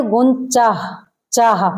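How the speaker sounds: गुंचाह with a breathy h pushed out at the end; final h sounded. Shown as a demonstration. Teacher showing the wrong way, with the final h sounded. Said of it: "हा निकलनी चाहिए".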